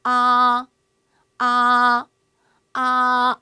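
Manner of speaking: loud open 아 drawn out, mouth wide; Chinese a. Shown as a demonstration. Teacher models 아 for students to repeat, loud and open. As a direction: model the Chinese vowel 아 clearly and loudly. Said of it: "이 푸는 연습하셔야 되겠죠".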